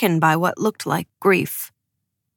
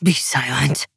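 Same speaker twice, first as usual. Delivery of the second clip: lower, growled command; menacing low order; 6 semitones lower than usual. A narrator's reading. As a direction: growl it down at her. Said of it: "he growled".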